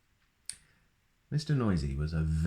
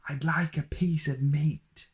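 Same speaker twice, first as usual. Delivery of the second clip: much higher, louder, slow booming voice; booming Mister Noisy; 9 semitones higher, 3 dB louder than usual. Acted. Mister Noisy orders bread from the baker, booming. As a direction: boom it out like a noisy giant. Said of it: "boomed Mister Noisy".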